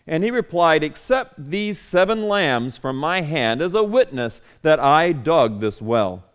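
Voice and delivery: measured, formal Bible reading voice; solemn scripture read-aloud. Acted. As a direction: read the passage steadily to the congregation. Reads scripture passage aloud.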